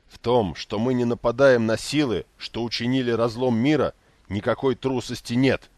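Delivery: loud, furious denial; angry outburst. A narrator's reading. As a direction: spit the words out like lava. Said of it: "Слова выплескивались из него, как лава". (гневный выкрик)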